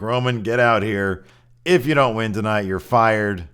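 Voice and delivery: lightly hammed heel chairman; heel Vince demand. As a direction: call him out like the villain boss. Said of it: "Vince came out full heel".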